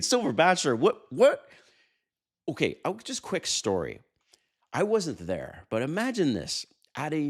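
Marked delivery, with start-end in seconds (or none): 0.0-1.5 high, loud, incredulous "what, what"; baffled viewer. Retold or imitated. Viewer baffled by the host's tequila tip, squeaky disbelief. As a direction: play the confused viewer in disbelief. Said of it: "And you might be thinking".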